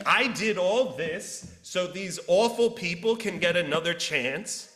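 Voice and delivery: loud, indignant outburst; furious Jonah. Retold or imitated. Jonah rages at God over mercy, loud and bitter. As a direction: spit out the unfairness. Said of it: "Jonah is furious".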